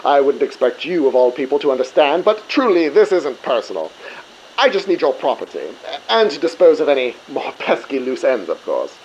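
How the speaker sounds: a light Cockney-stereotype villain voice; a hint of a Cockney bad guy taunting the crew; villain lightly putting on a Cockney accent. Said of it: "when he did it like a Cockney stereotype".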